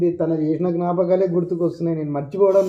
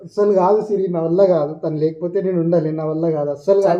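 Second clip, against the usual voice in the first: despairing outburst; 5 dB louder than usual. Acted. Heartbroken brother refusing comfort.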